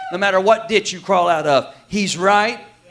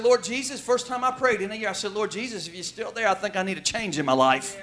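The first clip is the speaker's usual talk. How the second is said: quiet, humbled first prayer in a year; desperate prayer; 7 dB quieter than usual. Retold or imitated. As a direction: pray it quietly, at the end of your rope.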